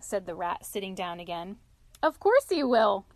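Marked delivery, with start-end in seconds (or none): 2.0-3.1 lightly amused, louder and lifted; chuckling. A narrator's reading. Otter joking with Rat about Toad, chuckling. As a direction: agree with a touch of a chuckle. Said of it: "chuckled the otter".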